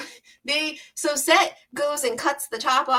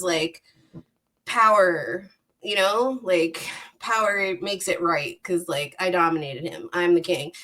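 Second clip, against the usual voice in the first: low, smug gloating villain voice; smug villain Set; 5 semitones lower than usual. Retold or imitated. Set gloats to the gods, low smug voice.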